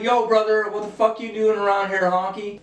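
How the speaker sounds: lightly voiced street tough, high; tossing out a mock street challenge; fake tough gangster. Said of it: "he's like".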